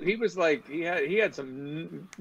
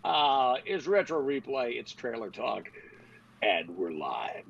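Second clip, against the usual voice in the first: intro voice; 3 semitones higher than usual. Shown as a demonstration. Host performs the intro voice on a co-host's request, announcer style. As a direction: show host's announcer intro, stretching out the names. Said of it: "Do the intro voice thing".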